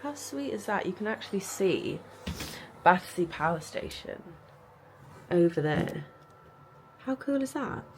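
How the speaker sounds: talking with retainers in; speaking around a retainer; wearing a retainer. Real, not acted. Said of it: "So I've got my retainers in".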